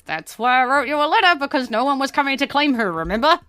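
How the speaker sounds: Nurse Clara, reminding. Acted. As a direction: remind them she wrote the letter. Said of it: "Nurse Clara looks at you and goes".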